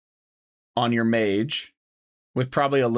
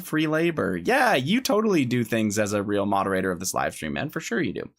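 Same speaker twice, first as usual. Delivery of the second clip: sarcastic. Real, not acted. Teasing the moderator.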